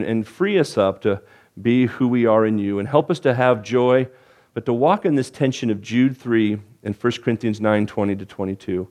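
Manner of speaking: low, hushed pastoral prayer; closing prayer. Acted. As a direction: pray it gently over the congregation. Leads a prayer.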